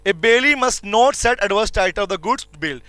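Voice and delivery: very slow reading of the rule; dictating the law slowly to students; slow dictation. Shown as a demonstration. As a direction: read it out word by word for notes. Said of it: "reading the provision slowly".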